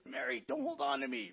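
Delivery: high, pinched "Mary, don't hold on to me" as if being hugged too tight; high strained plea of someone squeezed too hard; mock squeezed plea. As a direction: play Jesus gasping under a crushing hug, voice pushed up high. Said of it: "like, like this".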